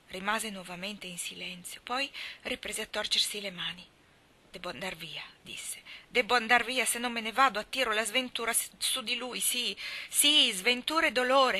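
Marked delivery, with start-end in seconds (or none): 4.5-5.2 whisper. Acted. Mally's anguished confession. 6.1-11.6 agitated. Acted. Mally frantic about bringing misfortune.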